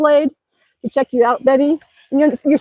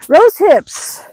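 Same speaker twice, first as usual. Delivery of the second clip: whispered; 5 semitones higher, 7 dB louder than usual. Real, not acted. Vlogger pointing out berries to viewers, whispered. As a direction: whisper the words like sharing a find.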